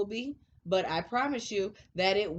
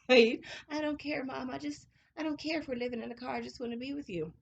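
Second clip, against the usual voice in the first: tender son voice, re-enacted; 4 semitones higher than usual. Son's words re-enacted, moved.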